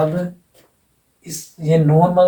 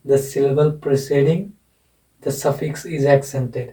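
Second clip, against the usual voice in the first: very slow, each word spaced for writing down; teacher dictating a rule for notes; slow dictation; much slower than usual. Shown as a demonstration. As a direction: dictate the rule slowly to the class. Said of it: "ये लिख लो एक".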